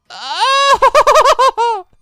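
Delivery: sudden loud yelp with a laugh; shocked cry, half laughing; startled yell. Real, not acted. Gamer yelping as his injured team gets hit, startled laughing yell. Enemy combo hits his Digimon.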